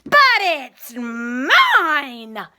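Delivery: loud, very slow indignant cry; angry bird claiming the egg; scream. Acted. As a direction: wail it out possessively. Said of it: "screamed the bird".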